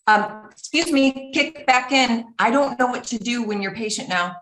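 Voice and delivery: a huffy partner thrown off balance; annoyed partner. Retold or imitated. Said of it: "this other person's gonna be like".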